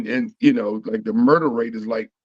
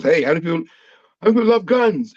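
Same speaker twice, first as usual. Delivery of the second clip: hyping the crowd; 5 semitones higher than usual. Retold or imitated. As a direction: pump the audience up like a stage comic. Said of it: "and he goes".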